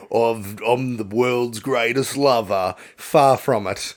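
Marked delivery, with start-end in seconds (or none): 0.1-2.8 boastful lover. Acted. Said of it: "I'm not like".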